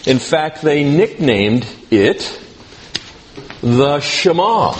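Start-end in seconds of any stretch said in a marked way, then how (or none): 3.6-4.7 Shema stressed on its second syllable, sounded "shuh-MAH". Shown as a demonstration. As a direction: lean on the last syllable of Shema, not the first. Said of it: "the emphasis is on the second syllable".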